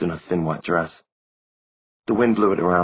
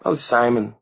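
put-on high young girl's voice; a small girl reproaching him; girlish voice; 6 semitones higher than usual. A narrator's reading. Narrator voices Maureen.

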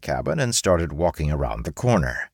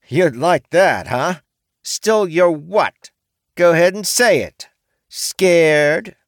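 high, loud goading challenge; T daring the samurai to say it; taunting orc woman; 12 semitones higher, 7 dB louder, slower than usual. A narrator's reading.

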